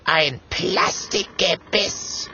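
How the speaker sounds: high, slow, drawn-out outrage; offended, spelling out each syllable; indignant. A narrator's reading. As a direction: exclaim it, deeply affronted. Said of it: "ruft Clementia empört".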